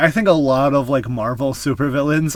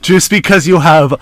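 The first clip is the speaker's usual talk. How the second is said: sarcastic; 7 dB louder than usual. Shown as a demonstration. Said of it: "air quotes, but I spoke them out loud".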